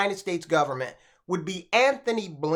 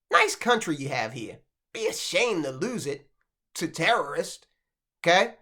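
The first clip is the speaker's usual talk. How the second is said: lightly acted veiled threat, pitched down; imply a threat in a lowered voice; 2 semitones lower than usual. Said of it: "you can read that like this".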